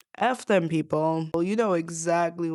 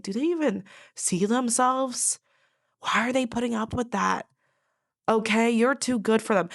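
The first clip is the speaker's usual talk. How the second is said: observers' disbelief; 4 semitones higher than usual. Retold or imitated. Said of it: "Observers ... being like".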